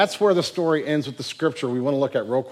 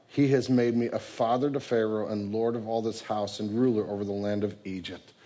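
low, soft, measured reading; solemn scripture reading; 5 semitones lower, 5 dB quieter than usual. Acted. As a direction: read Joseph's reassurance gently and quietly. Reads Joseph's words from scripture.

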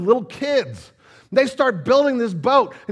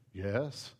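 timid Noah; 14 semitones lower, 16 dB quieter than usual. Pretend. Noah's timid reply.

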